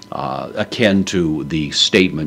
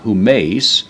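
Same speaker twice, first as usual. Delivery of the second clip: humeis pitched higher and louder; stress on humeis; 6 semitones higher, 6 dB louder than usual. Shown as a demonstration. Teacher points out the emphatic pronoun, humeis stressed. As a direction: lean hard on humeis, lifting it up. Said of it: "giving emphasis to it".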